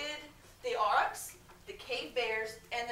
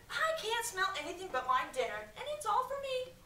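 smug boast; 9 semitones higher than usual. A narrator's reading. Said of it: "said Kip".

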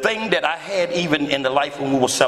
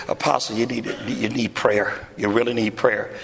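gentle; 5 semitones lower than usual. Retold or imitated. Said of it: "She's so gentle and sweet".

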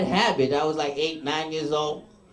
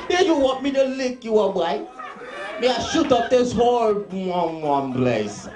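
put-on light Jamaican accent, a threat said half-laughing; a mild Jamaican inmate's threat; 3 semitones higher than usual. Jamaican inmate threatening the new guy, light Jamaican accent. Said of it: "Jamaican never say a word without cursing".

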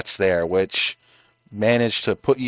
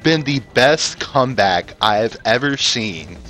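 excited; 5 semitones higher, 5 dB louder than usual. Real, not acted. Commentator hyped after close race.

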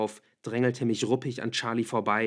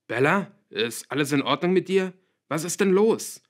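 loud, higher, alarmed calling; fearful shout; 7 semitones higher, 8 dB louder than usual. A narrator's reading. Father calls through daughter's door, full of fear. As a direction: call out in rising panic. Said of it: "rief er angsterfüllt".

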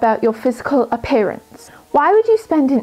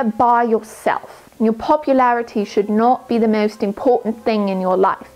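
clumsy put-on British accent, uneven throughout; earnest study-tips talk in an amateur British accent; bad British accent. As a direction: play a bookish schoolgirl in a weak British accent. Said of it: "my British accent was horrendous".

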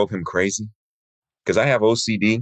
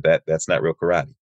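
gentle, lower-pitched correction; said nicely; 5 semitones lower than usual. Retold or imitated. Sensei telling a student what real karate is, said nicely. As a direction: let a student down kindly, voice dropped low and softened. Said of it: "he said it so nicely".

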